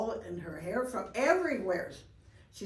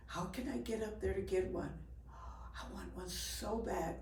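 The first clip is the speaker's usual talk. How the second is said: put-on yearning raccoon girl; 7 dB quieter than usual. Raccoon girl wishing for a star.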